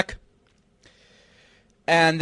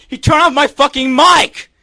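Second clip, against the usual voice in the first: outraged exclamation; 4 semitones higher than usual. Real, not acted. Outraged after mic cut.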